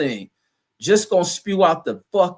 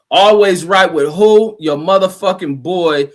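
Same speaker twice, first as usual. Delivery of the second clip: hype shout; 5 dB louder than usual. Real, not acted. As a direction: shout it out like a catchphrase. Hypes himself to his chat.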